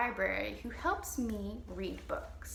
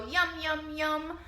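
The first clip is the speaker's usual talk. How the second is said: louder yum yum yum munching; monster yum; 5 semitones higher, 4 dB louder, slower than usual. Pretend. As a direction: savour it like a happy monster. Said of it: "she'll go".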